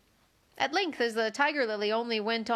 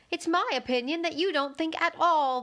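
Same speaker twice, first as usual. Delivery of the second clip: severe tone; 6 semitones higher, 3 dB louder than usual. Acted. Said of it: "in a rather severe tone".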